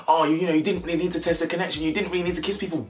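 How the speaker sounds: high-pitched, fast mock whining; mocking quick-fire imitation; Shish Kebab. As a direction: rattle it off high, imitating a contestant. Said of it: "Shish Kebab is now talking about".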